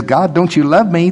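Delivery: a hint of a whiny child. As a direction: whine the question at God. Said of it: "that whiny part of me that says".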